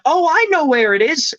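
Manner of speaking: very high, mock-excited helpful neighbour; eager realisation. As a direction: imitate someone delighted to know the answer. Wife suddenly thinks she knows.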